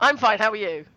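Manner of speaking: hoarse from a sore throat; rough, scratchy throat voice; gravelly voice. Real, not acted. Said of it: "I had a bad throat and I sound really gravelly".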